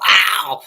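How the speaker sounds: retold yelp of pain. Buddy's cigarette sticks to his lip, imitated loud yelp. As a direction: yell it like a lip being yanked. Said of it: "and he'll go".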